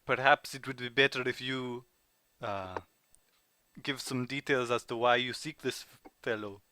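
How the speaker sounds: put-on polite, deliberate French-accented English. Informant asking why they seek this fellow, French accent. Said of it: "your French accent".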